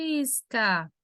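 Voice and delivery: "Faísca" with a long, stressed I after the A; hiato separado. Shown as a demonstration. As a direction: split "Faísca" and hold the I. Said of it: "separei as vogais A e I". ("Faísca" com A e I separados, I bem alongado)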